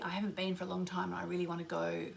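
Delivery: whispered, longing aside; wistful whisper. Real, not acted. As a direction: breathe it out wistfully. Wistful aside while guiding.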